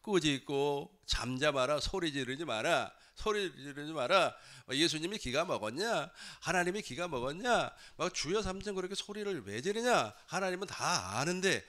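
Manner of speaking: mildly irritated, rising nagging rebuke; retold scolding crowd. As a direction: imitate people telling someone off. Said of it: "그러니까 사람들이 막".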